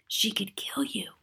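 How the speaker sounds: slow, fearful whisper. A narrator's reading. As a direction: breathe the warning out slowly. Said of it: "I whispered".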